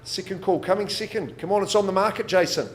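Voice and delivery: loud. Real, not acted. Auctioneer pushing for a bid.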